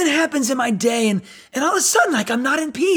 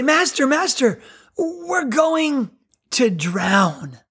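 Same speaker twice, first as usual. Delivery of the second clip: higher, urgent mock panic about drowning; panicked disciples; 3 semitones higher, much slower than usual. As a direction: cry out to the sleeping master, mildly alarmed. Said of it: "And they say".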